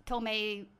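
Spanish with a gringo accent; Spanish spoken like an American learner. Real, not acted. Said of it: "but I speak like a gringo".

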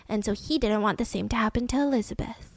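dropped to a whisper; half-whispered aside; hushed aside. Real, not acted. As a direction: whisper it like a confidence. Lowered voice about his reasons.

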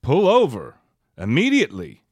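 deadpan safety-film narrator, lightly voiced; driver's ed narrator. Joking to a friend about a movie scene, mock driver's ed voiceover. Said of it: "doing the voiceover of the Driver's Ed".

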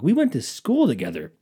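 mildly exasperated, pitch jumping about; acting out getting mad at a clueless caller; retold growing anger. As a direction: protest in mock disbelief. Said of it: "I'm getting mad now".

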